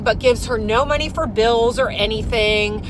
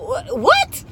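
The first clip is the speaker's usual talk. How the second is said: shocked what. Retold or imitated.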